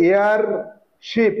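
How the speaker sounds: এয়ার, short pause, শিপ; word in two parts. Shown as a demonstration. Teacher introducing the next word to pupils, in two parts. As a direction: split এয়ার from শিপ with a small gap. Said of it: "উচ্চারণটা দেখো এয়ার".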